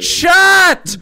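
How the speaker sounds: high loud yelp; sudden shout. Real, not acted. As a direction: bark it out sharply. Yelling at friends mid-chaos.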